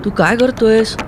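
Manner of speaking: high, uneasy voice asking what he is doing; uneasy question. A narrator's reading. Girl in the boat asks him uneasily. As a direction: ask it nervously, unsure what comes next. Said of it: "अस्वस्थ होत तिने विचारलं".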